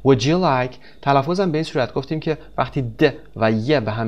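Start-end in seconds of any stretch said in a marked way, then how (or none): 0.1-0.8 "Would you" run together as "wou-ja"; "Would you like" said as "woujalike"; merged d-y sound. Shown as a demonstration.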